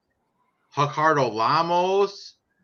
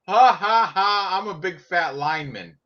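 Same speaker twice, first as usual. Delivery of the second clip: mock lineman; 3 semitones higher than usual. Mocks the laughing lineman.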